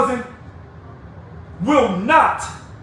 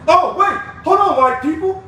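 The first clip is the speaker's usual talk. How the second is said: mock surprise; 7 semitones higher than usual. To union members, a hammed-up oh wait. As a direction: stop short as if just remembering. Feigned sudden realization.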